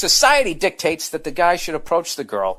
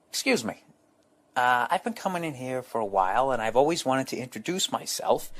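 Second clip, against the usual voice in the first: soft, hesitant voice, asking shyly; timid approach; 7 dB quieter than usual. Retold or imitated. To the sandwich lady, softly and timidly. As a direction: nervously introduce yourself to the sandwich lady. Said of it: "it went a little something like this".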